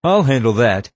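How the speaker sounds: testy, forceful interruption; snapped. A narrator's reading. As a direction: cut in sharply and claim the task. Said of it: "he snapped".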